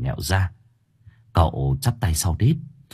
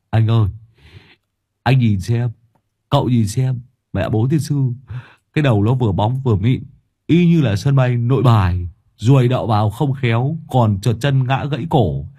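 loud, teasing, gleeful ribbing; gleeful mocking; 3 semitones higher, 3 dB louder than usual. Long teasing the bald owner to his friends, gleeful and loud. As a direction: make fun of the bald head with relish.

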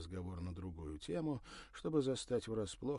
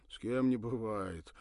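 forced friendly; 3 semitones higher, 7 dB louder than usual. Acted. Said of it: "выжил из себя подобие улыбки".

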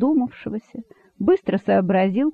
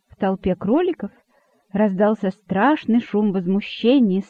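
plain reading voice

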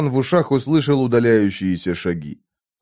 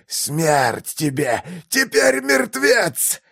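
last breath; 6 semitones higher, much slower than usual. A narrator's reading. Dying man's final curse before death.

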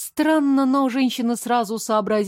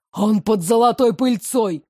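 out of breath; 4 dB louder than usual. Acted. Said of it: "задыхаясь от бега, прохрипел".

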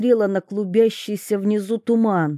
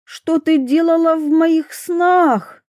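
frowning question; 8 semitones higher, 4 dB louder than usual. A narrator's reading. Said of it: "нахмурилась Майра".

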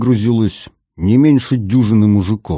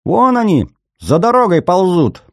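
much higher, loud pointing yell; excited shout; 11 semitones higher, 4 dB louder than usual. Acted. Young policeman spots the scouts.

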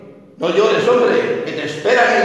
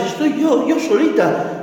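put-on little girl; 7 semitones higher than usual. Orphan girl answers clown.

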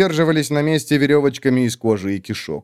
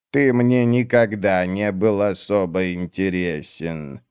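put-on lower, slow cold old witch; 4 semitones lower, slower than usual. Old witch coldly dismissing the warrior, slow and low. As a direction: drag each word out, icy and dismissive.

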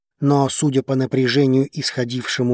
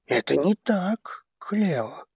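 soft, slow, gentle grandfather; softer; 5 semitones higher, 6 dB quieter, slower than usual. A narrator's reading. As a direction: soothe her quietly. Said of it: "мягче ответил дед". (мягко, тихо и медленно)

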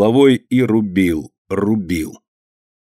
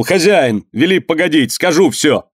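high, pressing cry to stop; desperate shout; 6 semitones higher than usual. Acted. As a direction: shout to halt the whipping. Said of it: "Вдруг Жданка крикнул". (высокий отчаянный крик)

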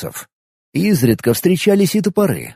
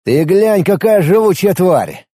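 higher, louder amazed outburst; amazed exclamation; 5 semitones higher, 3 dB louder than usual. Acted. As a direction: marvel at the beast. Hero marvels at tough enemy.

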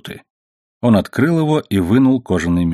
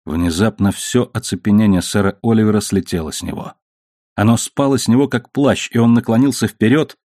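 ordinary delivery

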